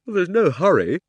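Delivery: loud, high, yawned-out words; with a huge yawn. Acted. Diggory answers Polly, yawning hugely. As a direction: stretch it through a big yawn. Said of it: "with a huge yawn".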